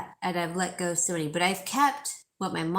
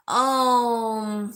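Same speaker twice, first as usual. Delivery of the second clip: surprised oh; 4 semitones higher, 6 dB louder than usual. Real, not acted. Reacting to a chat story.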